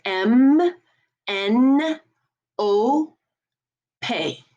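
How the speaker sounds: "M, N, O, pay" as "emm, enn, oh, pé"; French letters spaced for practice; French letter names. Shown as a demonstration. Teacher leading practice, French "emm, enn, oh, pé". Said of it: "So let's practice those".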